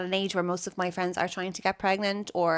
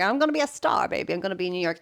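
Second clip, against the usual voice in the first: mock starry-eyed dreamer; faster than usual. Guest mocks her younger self's dream, hammed-up diva. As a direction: play your naive younger self. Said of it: "being like".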